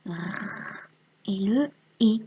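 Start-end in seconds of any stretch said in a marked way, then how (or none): 0.1-0.9 "r" held as a long rolling consonant; isolated sound. Shown as a demonstration. Teacher showing a pupil the letter's sound, held consonant. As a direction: sound out "r" alone, sustained. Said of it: "Et ici on a le".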